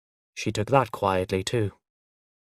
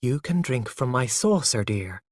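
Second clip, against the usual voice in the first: patiently. Acted. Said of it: "she said patiently".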